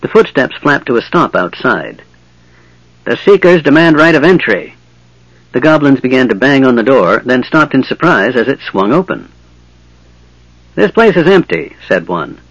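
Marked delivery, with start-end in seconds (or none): 3.1-4.8 goblin demand. Acted. Goblin guard at the door. 10.8-11.8 goblin voice. Acted. Goblin speaks.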